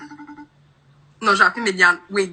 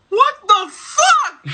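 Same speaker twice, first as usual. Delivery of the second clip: slow, higher-pitched disbelief; stunned disbelief; 4 semitones higher, 4 dB louder, slower than usual. Real, not acted. Girl reacting to stranger on video chat, stunned. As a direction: stretch it out, completely thrown.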